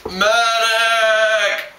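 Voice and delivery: high, loud call for a medic; man down shout. Acted. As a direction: scream for help after being hit. Wounded soldier calling out.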